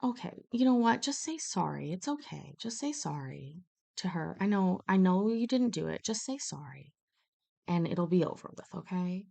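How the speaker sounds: calm him down so he'll apologize; soothing a crying kid. Retold or imitated. And I just said.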